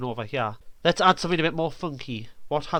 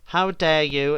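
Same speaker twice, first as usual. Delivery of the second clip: mock outrage; 3 semitones higher, 5 dB louder, slower than usual. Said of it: "voicing something random".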